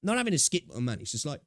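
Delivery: talking through hiccups. Real, not acted. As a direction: voice jolted by hiccups. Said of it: "fuck, I got the hiccups".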